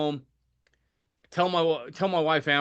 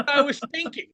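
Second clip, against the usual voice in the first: much higher, sheepish excuse; 12 semitones higher than usual. Retold or imitated. Patient defends himself to the nurse, high and sheepish. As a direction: plead weakly like a caught kid. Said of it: "And I'm like".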